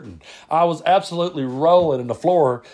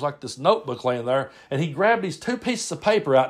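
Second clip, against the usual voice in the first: usual speaking voice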